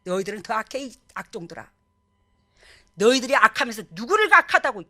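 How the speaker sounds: acted scolding, building in volume; cursing rebuke. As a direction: scold them with mounting indignation. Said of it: "욕을 퍼붓는 거야". (욕하듯 꾸짖는 말투)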